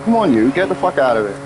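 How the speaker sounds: quick mock shooing of a pet; imitating cat talk. Streamer showing how they talk to the cat, brisk mock shooing. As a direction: rattle it off as a brisk pet scolding. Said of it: "That's how I talk to the cat".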